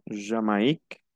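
JAMAÏQUE as "zha-ma-EEK", A and I both heard; French tréma demo. Shown as a demonstration. Teacher giving an example of sounded tréma, French tréma demo. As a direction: say JAMAÏQUE with separate A and I. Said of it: "se pronuncia A".

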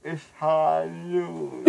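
slow, drawn-out cowboy line. Pretend. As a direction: say it slowly like a Western gunslinger. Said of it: "Say it like a manly beat".

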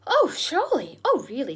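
high, loud cry of disbelief; shocked disbelief. Acted. Susan refusing to believe her brother betrayed them, shocked and loud. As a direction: gasp it out as if you can't believe it.

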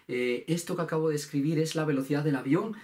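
usual speaking voice

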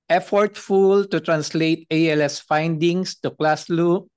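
emphasis placed on effortful; stress on effortful. Real, not acted. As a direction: make the word effortful stand out. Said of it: "emphasis on effortful".

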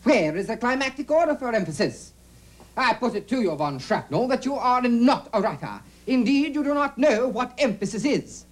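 declamatory courtroom-style accusation; pointed, theatrical challenge; accusing. Acted. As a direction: put it to the villain with emphatic force. Accuser confronts Von Shrapnel in sketch.

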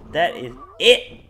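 fed-up outburst. Real, not acted. Quiet then shouted repeat.

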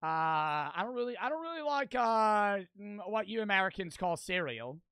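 hammed-up mock British accent; bad British accent. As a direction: put on a haughty, unconvincing British voice. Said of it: "prepare my British accent".

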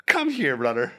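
mock summons across the street; calling out. Acted quote calling someone over.

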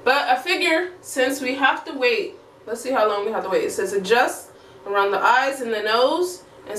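face mask limiting mouth; through a sheet mask. Real, not acted. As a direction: stiff lips under mask. Seen 0: Sheet mask covers her face and mouth area throughout; absent beforehand.

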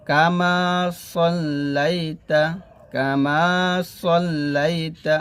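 drawn-out chanted Arabic; measured, sustained teaching recitation; slow recitation. Acted. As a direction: chant slowly, humming the doubled m.

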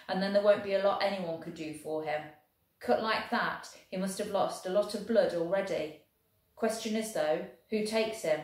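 lightly voiced Welsh soldier, proud and lively; a hint of a cheerful Welsh infantryman. Welshman boasting of rugby to the German, lightly voiced.

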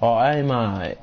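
mock Aussie. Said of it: "it's actually getting annoying".

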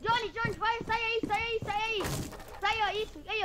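excited urging. Real, not acted. Urging teammate during fight.

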